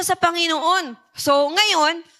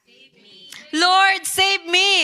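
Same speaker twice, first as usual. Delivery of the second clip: slow plea for help; 3 semitones higher, slower than usual. Acted. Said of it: "Ano sabi niya?".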